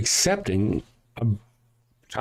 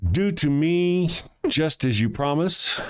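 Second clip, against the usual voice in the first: slow, solemn put-on voice of a devoted daughter; dramatic daughter voice; slower than usual. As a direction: read it slowly like a martyr. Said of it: "I hope she did it in that voice".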